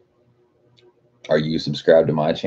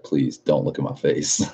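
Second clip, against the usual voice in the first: lower, softer, mock pleading "Please don't look at my face"; shy car begging not to be looked at; 3 semitones lower, 4 dB quieter than usual. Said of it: "It's like".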